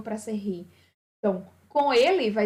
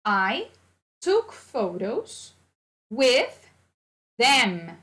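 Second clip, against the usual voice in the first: very slow, with "with" and "them" louder; slow teacher model; 4 dB louder, much slower than usual. Shown as a demonstration. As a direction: hit "with" and "them" hard and slow. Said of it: "teacher modelling sentence".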